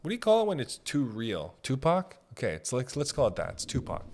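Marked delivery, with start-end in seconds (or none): 3.5-4.0 whisper aside. Real, not acted. Joke aside, voiceless.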